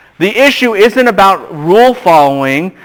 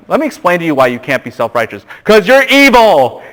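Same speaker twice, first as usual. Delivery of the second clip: Moses going off; 2 semitones higher than usual. Retold or imitated. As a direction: play Moses losing patience with the people. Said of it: "Moses just goes off".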